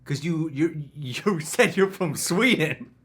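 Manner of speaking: security guard voice. Acted. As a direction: wave the line through like a bored guard. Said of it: "I'll play Alfred".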